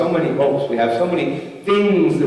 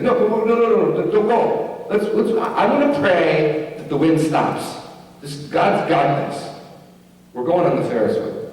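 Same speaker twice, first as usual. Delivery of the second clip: imitating the kid; 5 semitones higher than usual. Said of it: "He's like".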